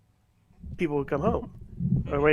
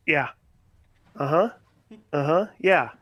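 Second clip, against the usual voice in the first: stuck, disengaged replies. Retold or imitated. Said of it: "just like when I was stuck".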